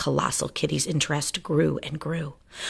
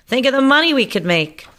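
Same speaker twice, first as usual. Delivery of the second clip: greedy mouse scientist; 9 semitones higher, 6 dB louder than usual. Acted. Varmint greedy.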